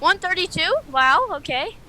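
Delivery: loud and high, amazed; surprised shout. Real, not acted. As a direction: shout the number in disbelief. Reading huge wind speed.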